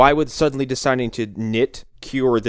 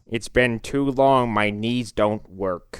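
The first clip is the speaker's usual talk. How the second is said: put-on old-timer voice; slower than usual. Joke old-man character line.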